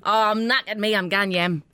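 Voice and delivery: shaky Geordie drifting into Irish; Geordie going Irish. Shown as a demonstration. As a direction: attempt Geordie, slip into Irish on the end. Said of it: "the yem went Irish".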